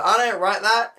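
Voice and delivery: a mock startled brush-off; imitating Garnet. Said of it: "I'll explain how she says".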